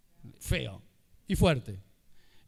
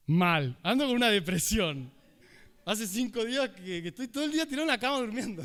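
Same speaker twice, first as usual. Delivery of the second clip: rattling off a depression fast and upbeat; cheerful bad news. Shown as a demonstration. Speaker shows how a bright tone betrays sad words. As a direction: sound chipper while describing misery.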